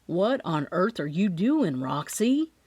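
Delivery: worried, fed-up question; half worried, half exasperated; concerned and exasperated. Acted. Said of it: "his voice a mix of concern and exasperation".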